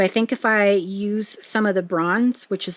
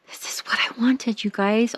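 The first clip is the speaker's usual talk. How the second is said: gasped excited whisper; 3 semitones higher, 3 dB quieter than usual. Real, not acted. Thrilled gasp at finished print.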